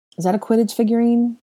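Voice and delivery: wary and doubting. A narrator voicing a character's question in a story, suspicious question. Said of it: "Hermione asked suspiciously".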